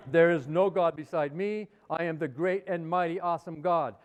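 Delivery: lightly voiced self-exalting deity, emphatic openings; megalomaniac God. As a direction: proclaim your own glory like a mock almighty. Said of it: "Who talks like that".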